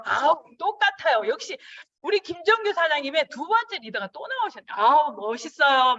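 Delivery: butter them up with exaggerated delight; gushing to a prospect that he's just like the author; flattering praise. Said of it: "막 이렇게 말씀드려요".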